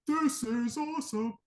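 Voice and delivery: high, strained mock cheer, drawn out and held back; badly faked hype, slow and high; whispered fake intensity. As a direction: pretend to be juiced without the volume. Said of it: "this whispered intensity thing".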